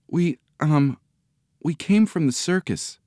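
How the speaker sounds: put-on high, faltering child; tentative high-pitched fib; hesitant excuse. A narrator's reading. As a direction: improvise an excuse, haltingly.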